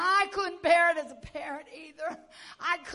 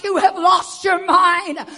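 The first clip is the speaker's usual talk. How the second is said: retold rebuke; 3 semitones higher, 12 dB louder than usual. Confronting the father, shouting.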